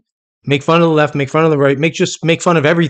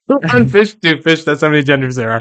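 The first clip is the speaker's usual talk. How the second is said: laughing; 3 semitones higher, 3 dB louder than usual. Real, not acted. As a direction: laugh through the punchline. Repeating the punchline while laughing.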